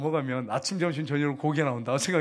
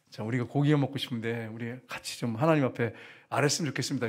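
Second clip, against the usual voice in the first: polite request; 5 semitones lower, 3 dB quieter than usual. Retold or imitated. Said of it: "예의를 바르게 이렇게 한다며".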